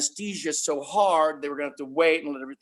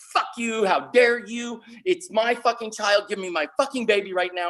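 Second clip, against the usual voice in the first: retold angry snap, higher pitched, speeding up; snapping; 5 semitones higher than usual. Sister turns on the nurse, angry snap. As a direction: snap back in outrage, as in a story. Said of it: "she snaps".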